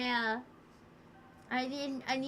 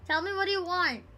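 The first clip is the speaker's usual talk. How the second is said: mock desperate demand; 4 semitones higher than usual. Streamer mock-pleading with chat.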